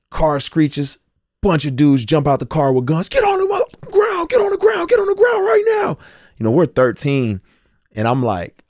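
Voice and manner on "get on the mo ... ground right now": high, loud barked commands; police shouting orders. Retold or imitated. Officers jumping from the car at the boys, shouting high and loud. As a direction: yell it like cops with guns drawn.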